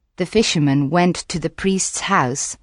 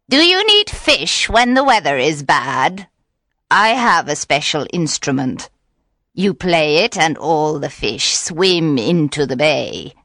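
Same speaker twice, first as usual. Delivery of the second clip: lightly voiced witch, coaxing then hushed; sly witch; 3 semitones lower than usual. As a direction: tempt the pretty boy slyly. Witch bargains with fisherman.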